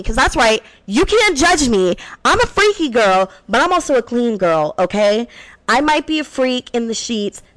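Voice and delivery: sassy host intro with attitude; radio host. Acted. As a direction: own it and throw it at the haters.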